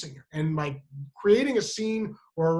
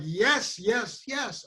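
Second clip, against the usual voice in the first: higher, teasing retort; heckling; 4 semitones higher, much slower than usual. Retold or imitated. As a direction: taunt through the door, lightly acted. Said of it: "heckling me".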